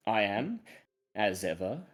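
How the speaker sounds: slow, theatrical storyteller with wide pitch swings; deliberate, dramatic pauses between phrases; game master's scene setting. Acted. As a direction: summon the investigators back into the tale.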